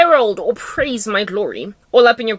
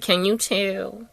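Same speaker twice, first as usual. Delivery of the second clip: softer, drawn-out question; understated aside; 2 semitones lower, 6 dB quieter, slower than usual. Acted. Repeats the question for emphasis.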